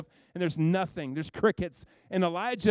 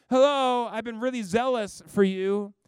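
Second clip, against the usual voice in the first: a higher, louder defensive complaint; exasperated Elijah; 5 semitones higher, 5 dB louder than usual. Retold or imitated. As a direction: plead your case, fed up and alone. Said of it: "And he says it again".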